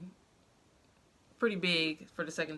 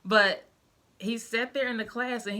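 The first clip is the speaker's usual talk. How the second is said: fast, choked-up apology, fighting tears; apologizing to viewers as emotion rises, fast and choked; getting emotional; 2 semitones higher, faster than usual. Real, not acted. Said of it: "I'm about to get emotional".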